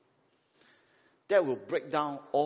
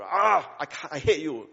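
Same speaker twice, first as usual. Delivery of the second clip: mock melodramatic outburst, slightly louder; angry outburst; 5 dB louder than usual. Son in a Korean drama arguing with father, mock angry. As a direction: play a hammed-up tantrum. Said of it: "In the fit of an argument".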